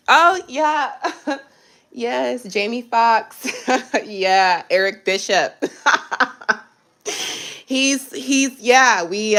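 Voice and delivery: giggly, laughing lie; giggling brag. Real, not acted. Bragging about a fake famous relative while giggling. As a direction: laugh through the bluff.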